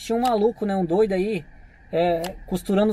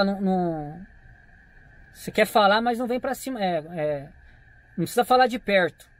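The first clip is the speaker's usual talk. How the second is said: calmo e firme. Retold or imitated. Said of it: "falei pro cara desse jeito".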